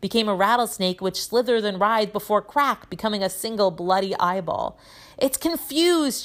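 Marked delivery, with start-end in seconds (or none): 5.2-6.2 high, drawn-out shout; Professor Lupin. A narrator's reading. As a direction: call it out slowly to the whole class. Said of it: "shouted Lupin".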